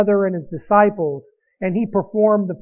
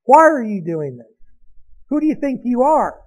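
demanding; 3 semitones higher than usual. Retold or imitated. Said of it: "the Jews demanded".

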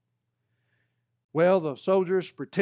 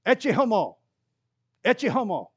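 raised proclaiming voice, Latin words; Pilate crying out; 4 semitones higher, 4 dB louder than usual. Acted. Pilate presenting Jesus to the crowd, calling out. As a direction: call it out to the crowd.

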